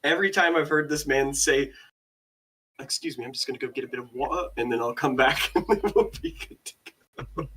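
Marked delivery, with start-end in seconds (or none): 2.8-7.5 imitating British accent. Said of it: "British people don't say".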